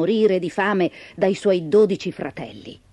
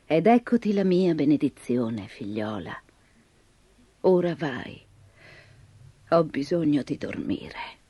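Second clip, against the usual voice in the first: put-on a tired old grandmother speaking; old woman voice; 8 semitones lower, 6 dB quieter than usual.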